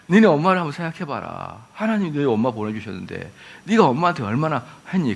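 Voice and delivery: low tear-jerking preacher, lightly acted; emotional retreat preacher. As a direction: lightly imitate a preacher coaxing children to cry. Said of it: "그 감성을 자극하잖아요". (낮게 감성을 자극하는 수련회 전도사 흉내)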